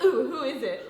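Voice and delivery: laughing, curious ooh; mock swooning interest, through a laugh; intrigued ooh. Cohost imitating their instant reaction to a sexy voice, intrigued. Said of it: "we're just immediately like".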